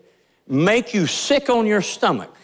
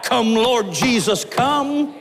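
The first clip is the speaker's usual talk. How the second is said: crying out; 6 semitones higher, slower than usual. Retold or imitated. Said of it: "spirit-filled people who cry out".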